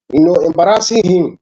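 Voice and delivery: muffled, like through a bad mic. Real, not acted. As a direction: speak from behind a muffled mic. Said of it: "Mic's kinda muffled".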